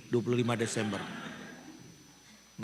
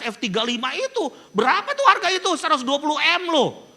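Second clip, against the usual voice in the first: ordinary delivery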